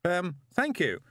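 high shout over a roar; shouting over flames. A narrator's reading. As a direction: shout above the fire. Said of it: "shouted Moist".

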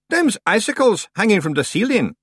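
a rustic Scot at the door; Scottish-ish stranger. A narrator's reading.

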